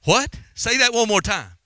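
taken aback, asking them to repeat it; retelling a stunned reaction; retold disbelief. Retold startled reply on phone.

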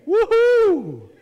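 high, loud mock woohoo; imitating her cheer. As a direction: cheer like the excited lady in the picture. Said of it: "like this lady here".

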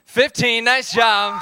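loud and high praise at the last count; celebratory shout; triumphant finish. Real, not acted. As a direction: cheer the group at the finish.

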